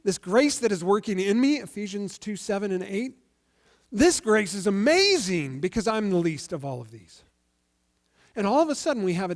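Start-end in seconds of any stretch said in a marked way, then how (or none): 0.0-7.2 awed Paul. Retold or imitated. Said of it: "it's after he says".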